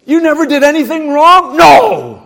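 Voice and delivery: mocking disbelief; incredulous mock. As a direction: scoff at the claim. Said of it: "Well, you're proud".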